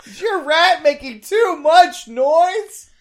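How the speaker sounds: infomercial announcer voice. Pretend. Mock ad pitch about rats.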